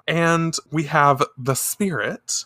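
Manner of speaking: ordinary talk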